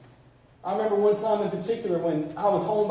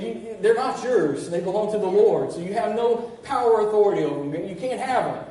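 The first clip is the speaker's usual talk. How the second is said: louder, forceful rebuke of the enemy; rebuking the enemy; 4 dB louder than usual. Retold or imitated. Preacher reenacting his rebuke of the enemy, forceful and loud. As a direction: command the enemy to let go.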